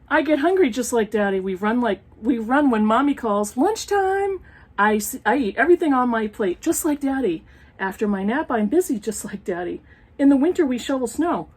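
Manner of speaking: sing-song picture book reading; reading to children. Acted. Reading an old picture book aloud to her viewers, storytime voice. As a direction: read it like a storytime page.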